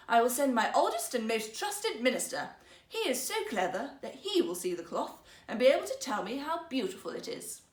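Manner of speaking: the emperor musing grandly to himself; emperor's inner voice. Acted. Emperor decides to send his trusted minister, lightly voiced.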